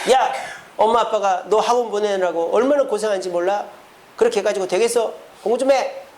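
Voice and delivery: mild mock telling-off; parental scolding. Parent pushing a child to study, mildly scolding. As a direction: nag like a fed-up parent. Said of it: "야단치지 마세요".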